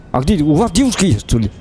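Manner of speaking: ordinary delivery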